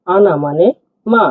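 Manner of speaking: "আনা মানে মা" spelled out slowly, each word separate; slow teaching repeat. Shown as a demonstration. Teacher breaking down "আনা মানে মা" for learners, slowly. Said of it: "আমি ভেঙে দিচ্ছি".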